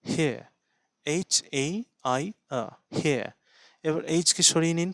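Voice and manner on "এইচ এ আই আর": slow, quiet letter-by-letter spelling; spelling out hair. Shown as a demonstration. Teacher spells hair for students, quietly. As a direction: spell it out, one letter at a time. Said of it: "শব্দটা ধরে নিন হিয়ার".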